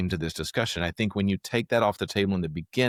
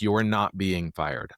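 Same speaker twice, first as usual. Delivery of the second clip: slow reassurance; much slower than usual. Shown as a demonstration. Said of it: "take the things off the table".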